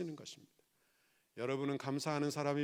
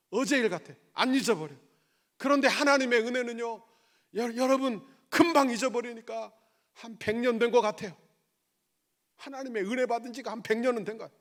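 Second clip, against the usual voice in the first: raised, emphatic pulpit delivery; forceful preaching; 8 semitones higher, 9 dB louder than usual. Real, not acted. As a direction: drive each point home loudly. (힘주어 높이 외치는 설교)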